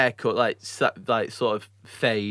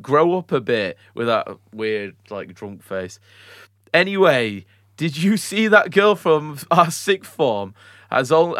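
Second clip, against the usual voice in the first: brash lad reading, louder, faster; mocking lad voice; 4 semitones higher, 4 dB louder than usual. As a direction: sneer it out as a laddish bloke. Reading mock lad messages.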